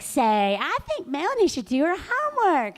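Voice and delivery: lightly voiced mom speaking for the poodle; mom talking through the dog. Mom speaking through the poodle, a light sing-song. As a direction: say it as if the dog were the one talking. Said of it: "Say always meant Fifi's talking".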